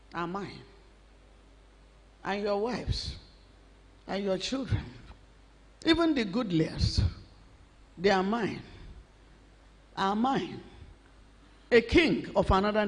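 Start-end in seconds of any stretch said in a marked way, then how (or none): 0.1-10.6 menacing hush. Acted. Preacher voicing the demand softly.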